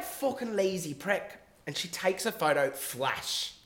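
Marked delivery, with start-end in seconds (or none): 0.0-1.4 slow, slightly raised Irish voice; Irish accent. Retold or imitated. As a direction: imitate the Irish girl, drawn out. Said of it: "Anyway, she's like".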